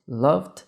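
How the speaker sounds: "Loved" in one syllable, silent E. Shown as a demonstration. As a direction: say "Loved" with just a D added after the V. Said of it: "eu só acrescento a nova consoante".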